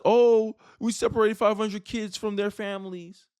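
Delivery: hammed-up indignant gasp; mock outrage. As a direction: mimic her outrage sarcastically. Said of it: "the same woman who was just mad at Donald Trump".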